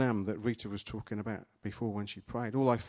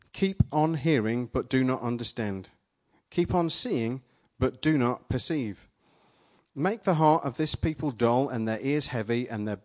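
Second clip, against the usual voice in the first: scripture reading. Acted. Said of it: "Let me read you part of it".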